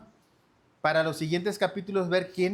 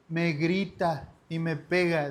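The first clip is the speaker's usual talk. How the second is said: niña quejándose. Retold or imitated.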